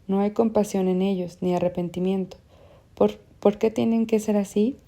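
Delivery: pressing on, heated and fast to the end; a young man who can no longer hold back; impetuous. Acted. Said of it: "ya impetuoso". (impetuoso, cada vez más acalorado)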